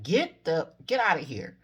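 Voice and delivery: stunned exclamation; shocked disbelief. Retold or imitated. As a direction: blurt it out in shock. Stunned reaction to suicide confession.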